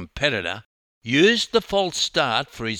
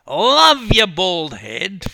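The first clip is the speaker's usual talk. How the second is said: loud, high, drawn-out fan shout; another fan yelling; 8 semitones higher, 9 dB louder, slower than usual. A narrator's reading. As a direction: holler it slowly over a crowd. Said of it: "from another".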